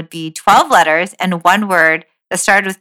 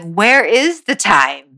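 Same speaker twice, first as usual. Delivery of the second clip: bewildered; 2 semitones higher, slower than usual. Retold or imitated. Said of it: "it's like".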